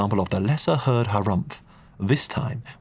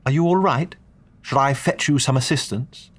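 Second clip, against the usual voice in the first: higher, careful over-enunciated voice; slow, deliberate talking-down; 5 semitones higher than usual. A narrator's reading. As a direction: speak slowly to an elder. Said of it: "that particular tone we English reserve for conversing with our elders".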